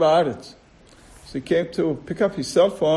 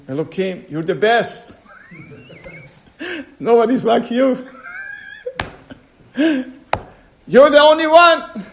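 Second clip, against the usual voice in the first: mock flattery; 9 semitones higher, 3 dB louder than usual. Flattering God, laughing.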